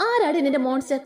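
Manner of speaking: a hint of a stern, gruff man. Rudran catching Divya from behind, stern and serious. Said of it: "ഗൗരവമാർന്ന ശബ്ദം".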